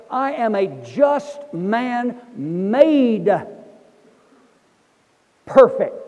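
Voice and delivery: very slow, "perfect" rung out loud; slow emphatic quote. Acted. Preacher quoting Hebrews to congregation, slow loud emphasis. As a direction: draw it out and land "perfect" big.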